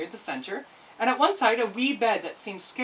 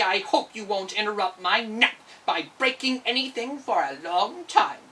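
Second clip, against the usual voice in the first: drowsy but bossy captor voice; a yawning tyrant warning the girl; sleepy gruff giant; 2 semitones higher, 3 dB louder than usual. Acted. Crinklink gets sleepy.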